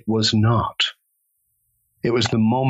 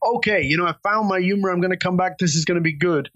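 elated; 6 semitones higher than usual. Retold or imitated. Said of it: "feeling like".

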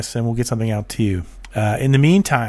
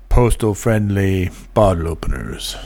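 high nasally voice today; 5 semitones lower than usual. Real, not acted. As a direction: talk through a nasal, stuffy voice. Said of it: "I have a high nasally voice today".

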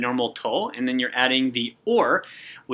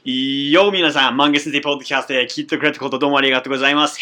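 energetic show intro; 6 dB louder, much faster than usual. Real, not acted. Host's energetic show opening.

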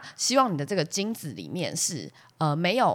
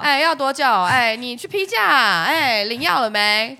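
mock nagging; 5 semitones higher, 6 dB louder, slower than usual. Nagging husband, drawn out.

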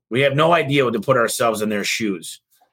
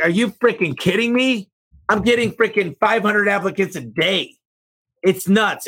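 amazed disbelief; 8 semitones higher than usual. Retold or imitated. Amazed reaction retold to friends.

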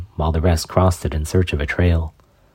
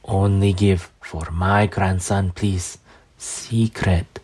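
slow, weak crone voice fading; dying old woman; 3 semitones higher, slower than usual. Acted. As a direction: strain and fade on each phrase.

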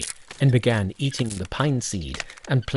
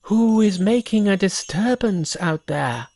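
put-on shouting boy; 9 semitones higher than usual. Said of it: "The boy shouted".

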